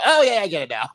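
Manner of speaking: sudden realization. Acted. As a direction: act out the joke finally landing. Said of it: "You're gonna go".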